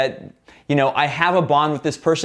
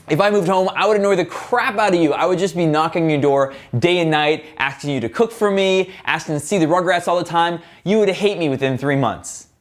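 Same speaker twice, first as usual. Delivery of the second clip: playful banter. Shown as a demonstration. Bantering with his mom about moving back, playful. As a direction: tease her warmly with mock complaints. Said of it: "more playful and bantering".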